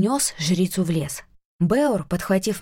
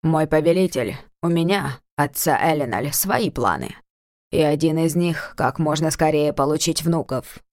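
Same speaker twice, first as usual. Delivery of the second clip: lowered, firm voice of a stubborn elf father; 5 semitones lower than usual. Acted. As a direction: state it flatly, a touch defiant. Твёрдо заявил повелителю.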